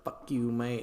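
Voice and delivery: mild mock yell across a crowd; mock screamed insult. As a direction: toss the insult back, half-shouted. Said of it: "they're all screaming insults back and forth".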